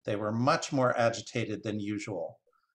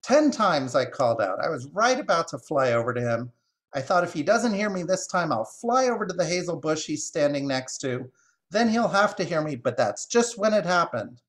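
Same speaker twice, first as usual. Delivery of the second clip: cackling magpie; 5 semitones higher, 3 dB louder than usual. Acted. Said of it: "the magpie cackled".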